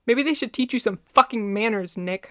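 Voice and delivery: angry shout after him. A narrator's reading. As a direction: yell it at his back. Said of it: "I shouted at his back".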